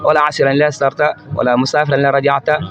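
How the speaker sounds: usual speaking voice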